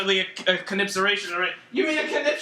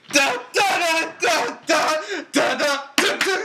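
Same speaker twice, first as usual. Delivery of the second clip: mock fanfare; 2 semitones higher, slower than usual. Shown as a demonstration. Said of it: "let me see them".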